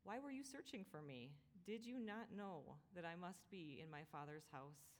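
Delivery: lightly voiced, even and unhurried; a hint of a calm, matter-of-fact boy; calm reply. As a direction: answer calmly, as a simple fact. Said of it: "Jesus calmly replied".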